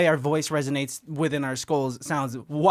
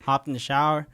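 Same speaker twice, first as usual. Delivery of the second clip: impression of a friend. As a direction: mimic his laid-back talk. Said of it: "This is, this is good, Christian".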